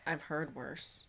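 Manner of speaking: slow teasing whisper; hushed slow aside. Real, not acted. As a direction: breathe it as a secret.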